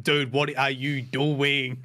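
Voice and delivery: slow, drawn-out mock scolding; mad dad. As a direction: play an exasperated dad, lightly hammed up. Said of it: "like a mad dad".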